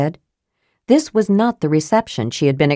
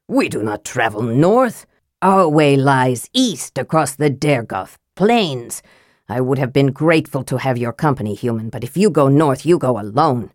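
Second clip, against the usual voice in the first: a hint of a stern dwarven prince, lower; lightly voiced haughty prince; 4 semitones lower than usual. Possessed Sturm refusing Caramon, a touch lower and stern. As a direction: lay it down coldly.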